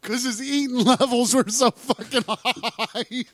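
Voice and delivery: high, slow goofy voice; cartoon voice. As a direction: drag it out like a cartoon. Joking cartoon quote.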